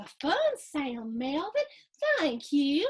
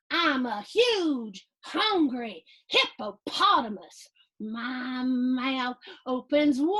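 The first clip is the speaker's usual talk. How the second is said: slow, careful, a bit louder reading; slow corrected reading; 4 dB louder, slower than usual. Shown as a demonstration. Reading to kids, redoing the line slowly. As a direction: read it carefully the right way. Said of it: "I'm gonna start that again".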